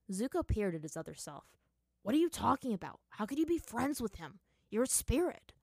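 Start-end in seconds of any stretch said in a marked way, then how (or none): 2.0-5.5 mildly incredulous, higher-pitched questioning; disbelieving. Acted. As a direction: challenge the other self in disbelief. Arguing in disbelief with older self.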